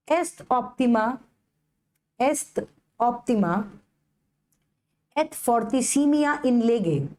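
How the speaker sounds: est optima et fortissimia in lege drawn out word by word; very slow model pronunciation. Shown as a demonstration. Teacher models the maxim slowly for students to repeat. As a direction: spell the maxim out slowly with pauses. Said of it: "क्या बोलोगे".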